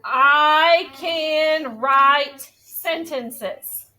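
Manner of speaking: very slow, drawn-out words. Shown as a demonstration. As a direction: model the sentence one word at a time. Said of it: "every time I said the sentence over".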